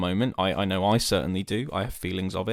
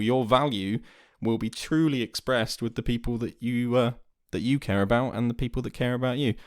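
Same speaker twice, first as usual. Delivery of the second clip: talking through hiccups; hiccuping; 2 semitones higher than usual. Real, not acted. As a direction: hiccups breaking the words. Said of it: "Sorry, I'm hiccuping".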